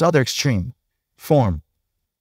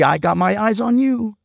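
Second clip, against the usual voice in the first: cheery slogan; 6 semitones higher than usual. Retold or imitated. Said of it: "enforced by this cheery".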